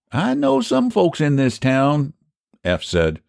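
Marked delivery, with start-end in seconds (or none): 0.1-2.1 high, drawn-out rustic character; slow, high-pitched country doubter; country pie seller Eph. Acted.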